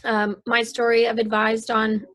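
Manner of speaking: hoarse, strained voice from losing it. Real, not acted. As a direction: speak with a voice that's giving out. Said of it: "I'm losing my voice already today".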